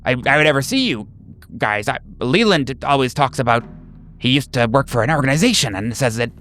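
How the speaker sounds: nervous patient. Acted. GM voicing a nervous patient to the visiting group, jittery stammer. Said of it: "He's like".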